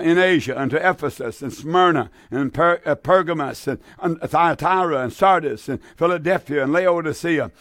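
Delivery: reading the verse out in a sermon; solemn preacher reading; scripture reading. Acted. Radio preacher reads Revelation, solemn reading.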